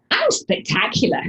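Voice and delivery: high, exuberant boast; big showy positivity; powerful. Acted. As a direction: announce it with gusto. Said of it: "make those three words even more powerful".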